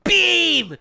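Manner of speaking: stretched, high-pitched mock yell; yelled move name. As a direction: belt it out like a fighting game hype call. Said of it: "he would go".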